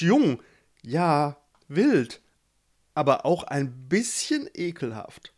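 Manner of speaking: lightly voiced kind toad, awkward; tactful toad Itsche. Itsche politely says he stinks. (Itsche sagt ihm vorsichtig, dass er stinkt)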